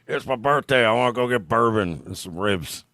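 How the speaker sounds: lightly voiced old guy; a hint of an old man announcing his treat. Host imagines an old guy's birthday plan, lightly voiced old guy. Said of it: "one of those old guys that's just like".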